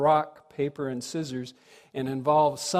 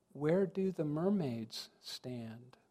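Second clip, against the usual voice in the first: mock small, concerned child voice, quieter; 10 dB quieter than usual. Retelling a small child tugging at your pants leg, imitating a small, concerned voice. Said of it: "asks in a small, concerned voice".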